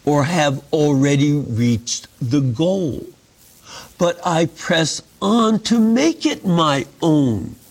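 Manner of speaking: measured, emphatic reading from scripture. A narrator's reading. Teacher reading Paul's verses to a study group, measured scripture reading.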